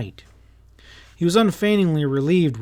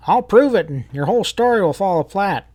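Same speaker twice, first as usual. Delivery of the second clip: defiant shout; 6 semitones higher, 5 dB louder than usual. Acted.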